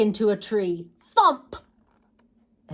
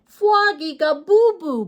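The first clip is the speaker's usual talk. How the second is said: giggly tease; 6 semitones higher, 7 dB louder than usual. Acted. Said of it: "giggled Polly".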